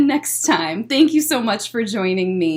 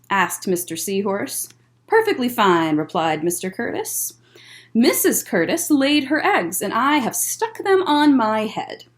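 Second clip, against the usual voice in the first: gentle storytime read-aloud; picture book voice for kids; reading to children. Acted.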